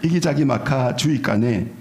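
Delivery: Gangwon dialect. Shown as a demonstration. Pastor amusing the congregation with a Gangwon-accent Psalm. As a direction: ham up the Gangwon lilt, slowing on the last line. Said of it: "강원도 버전".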